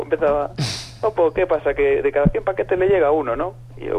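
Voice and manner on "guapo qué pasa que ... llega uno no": imitated Basque accent. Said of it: "acento vasco".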